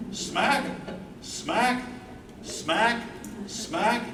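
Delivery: playful smacking kisses, each lifting up; kiss smacks. Acted. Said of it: "five big love kisses".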